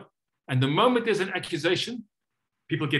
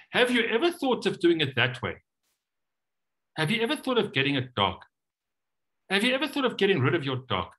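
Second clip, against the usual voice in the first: advice disguised; 5 semitones higher than usual. Shown as a demonstration. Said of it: "it's actually advice".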